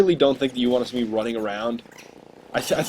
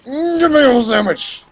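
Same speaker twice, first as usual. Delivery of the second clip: very high, slow, cartoonish whine; squeaky high demand; 12 semitones higher, 5 dB louder, slower than usual. Mocking the enemy player, very high squeaky whine. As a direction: squeal it like a silly voiced enemy.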